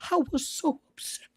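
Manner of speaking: high, mock-fretful pearl-clutching voice; high whiny mock lament; mocking pearl-clutcher. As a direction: ham up a fussy pearl-clutcher. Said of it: "oh, clutching your pearls".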